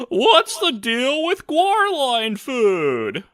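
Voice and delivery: high slow Seinfeld bit; stand-up comic whine, stretched out; Seinfeld impression. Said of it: "So basically you're playing as Seinfeld".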